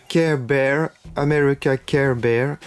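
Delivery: slow, mock English accent on the names; terrible English accent. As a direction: ham up a bad English accent. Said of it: "l'accent anglais terrible".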